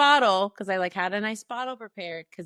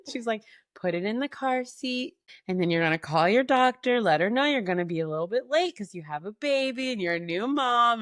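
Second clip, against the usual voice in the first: mother calmly reassuring her new-mom daughter, lightly voiced; imitating her mom; 3 dB louder than usual. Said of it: "You're doing a great job of your mom".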